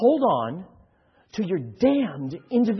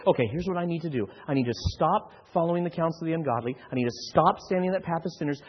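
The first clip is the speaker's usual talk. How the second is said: quick, soft mock inner voice; hurried self-talk; 2 semitones lower, 5 dB quieter, faster than usual. Pastor voicing a listener's anxious plan, rushed. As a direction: rattle off the to-do list.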